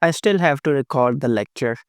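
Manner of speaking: hoarse voice from flu and sore throat. Real, not acted. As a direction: talk through a sore throat. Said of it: "I'm having a bit of flu and sore throat, so my voice might be affected".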